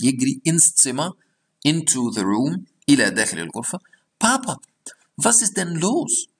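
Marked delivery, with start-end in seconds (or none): 4.2-6.3 put-on child's worried call. Voicing the son in story.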